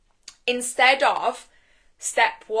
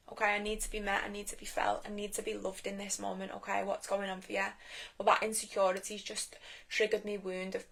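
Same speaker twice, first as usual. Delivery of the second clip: hurt inner voice; 5 dB quieter than usual. Acted. Voicing her hurt inner child.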